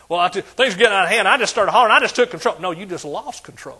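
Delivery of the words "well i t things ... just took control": loud, fast hollering of a man losing it; mock hollering. Preacher mocking a man who hollers to take control, loud and fast. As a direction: act out a guy yelling that he took control. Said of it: "we often think we're just taking control".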